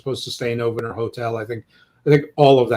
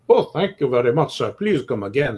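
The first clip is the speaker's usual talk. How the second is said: hammy, vaguely Macedonian attempt at Italian; badly faked Italian restaurant man's accent. Restaurant man thanks a happy diner, in a bad Italian accent. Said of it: "that's my Italian accent".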